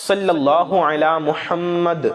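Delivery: slow, measured recitation; slow reverent recital; devout recitation. Shown as a demonstration. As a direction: let each word of the blessing settle. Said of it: "یہ بھی ایک درود پاک ہے".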